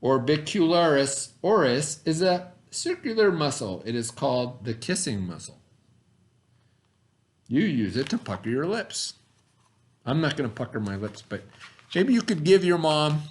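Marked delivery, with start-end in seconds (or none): 0.0-9.1 put-on clear, deliberate read-aloud voice for kids; reading to children. Teacher reads the science book to her students, storytime voice.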